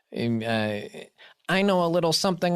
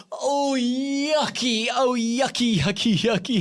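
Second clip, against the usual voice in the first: disgusted; 8 semitones higher, slower than usual. Pretend. After sipping pee.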